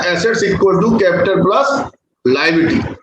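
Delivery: equation read out very slowly; slow dictation. Shown as a demonstration. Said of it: "हमारी equation के अंदर लिखा है". (धीमे स्वर में लिखवाना)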